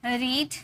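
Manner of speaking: रीड slowly, with a long ee; pronunciation model. Shown as a demonstration. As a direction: model रीड for learners, stretching the ee. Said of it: "इसकी pronunciation की जाएगी". (रीड में खिंची हुई ई)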